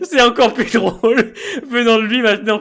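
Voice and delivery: giggling through the words; laughing. Real, not acted. Still laughing.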